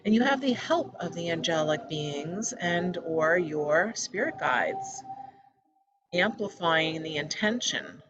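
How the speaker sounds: measured meditation-guide voice with pauses between phrases; calm, evenly paced meditation leading; guided meditation. Real, not acted. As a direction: guide listeners gently, phrase by phrase. Leads a meditation.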